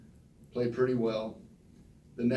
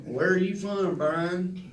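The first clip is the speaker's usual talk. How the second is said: higher put-on coach voice; coach's voice; 7 semitones higher, slower than usual. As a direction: do the coach asking the kid's name, pitched up. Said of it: "he kinda talked like this".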